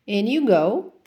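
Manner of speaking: sly snake, a hiss on the words. Acted. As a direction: lure the lion in like a crafty snake. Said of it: "hissed the snake".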